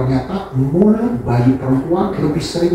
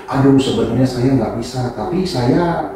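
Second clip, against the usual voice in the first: hesitant to confident; 6 semitones higher than usual. Retold or imitated. Self-encouragement building to confidence.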